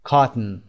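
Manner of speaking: Cotton said KAH-tn, no o sound; reduced vowel. Shown as a demonstration. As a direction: clip the last syllable of Cotton.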